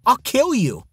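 screamed. A narrator's reading. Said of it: "Leslie screamed".

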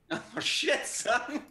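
high, loud yelp of surprise; excited exclamation. Real, not acted. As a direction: whoop it up high. Reacting to winner name.

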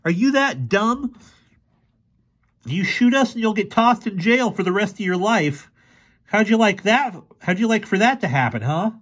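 high, heated challenge; confrontational. A narrator's reading. Fergie confronts the boy with the rifle, challenging. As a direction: dare him with pointed questions.

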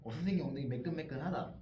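put-on English accent Korean. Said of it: "외국인이 발음을".

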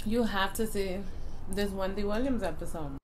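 talking while chewing; eating a sandwich while talking; mouth full. Real, not acted. Seen 2: bitten bun held at mouth while speaking, bite just before.

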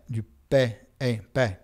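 "pain" with a plain oral vowel, no nasal yet; "pain" with a clean oral vowel; oral vowel first. Shown as a demonstration. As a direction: say "pain" as a bare "pè". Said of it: "on prononce une voyelle".

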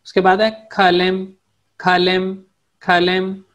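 खालेम said as kha-lem, clear and repeated; teacher drilling खालेम; Turkish word demo. Shown as a demonstration. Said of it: "कलम को बोलते हैं खालेम".

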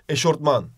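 eşortman with an rt in the middle; wrong pronunciation. Shown as a demonstration. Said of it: "Öyle bir şey yok". (yanlış söyleyiş: eşortman)

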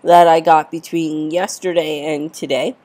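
blocked nose; stuffy head cold voice; congested. Real, not acted. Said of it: "I'm sorry that I sound very congested".

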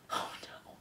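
very soft, breathed dismay; aghast. A narrator's reading. Antoinette hearing the warning, aghast. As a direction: let it out as a faint whimper. Mother reacts to ominous warning.

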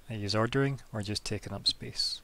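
lightly voiced Brooklyn noodle seller; Brooklyn accent. Noodle seller challenging loitering customers, Brooklyn accent. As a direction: put a hint of Brooklyn on it. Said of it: "In a Brooklyn accent".

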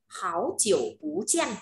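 slow "háo chiểu bú jian", "háo" and "bú" rising; tone sandhi. Shown as a demonstration. Teacher models the phrase, "háo" and "bú" in rising tones. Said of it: "hảo phải đổi thành háo lên".

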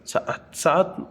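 সাআত broken into "sa-at", softly; rejected pronunciation. Shown as a demonstration. Teacher tries the form not used, সাআত, demonstrating mispronunciation. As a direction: say সাআত haltingly, with split vowels. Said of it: "উচ্চারণ হয় না".

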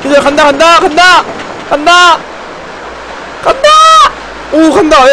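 high loud hype calls; excited shouting. Real, not acted. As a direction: cheer the ride on. Hyping the coaster riders.

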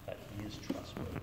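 soft unvoiced whisper. Real, not acted. Preacher telling listeners God is trustworthy, whispered. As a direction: breathe it intimately.

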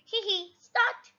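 light voiced hee hee, rising high; mild mock giggle; giggling. George enjoying the big wheel, lightly giggling. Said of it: "giggles George".

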